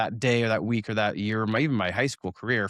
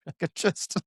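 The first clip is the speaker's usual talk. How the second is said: soft, sinking inner groan; quiet mortified trailing off; dismayed; 5 semitones higher, 6 dB quieter than usual. Retold or imitated. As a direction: let the words fall away in embarrassment. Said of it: "And I'm like".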